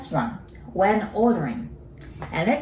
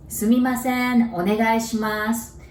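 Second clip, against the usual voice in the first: calling a waiter; 4 semitones higher than usual. Shown as a demonstration. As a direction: hail the waiter politely. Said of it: "If you could say that".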